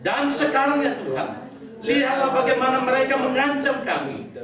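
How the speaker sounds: a lightly heightened congregational Bible reading; gentle scripture reading; reading scripture aloud. Acted. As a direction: read the verse as prayer to the church. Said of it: "Kita baca sama-sama".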